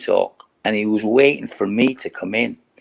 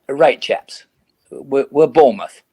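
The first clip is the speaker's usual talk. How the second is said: put-on old-school manager; 4 semitones higher than usual. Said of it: "he'd say things like".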